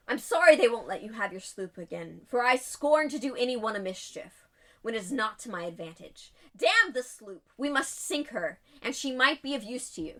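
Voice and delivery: lightly voiced epic scholar; James Franco scholar voice. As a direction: declaim it like a grand old scholar. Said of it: "a very epic James Franco the Scholar voice".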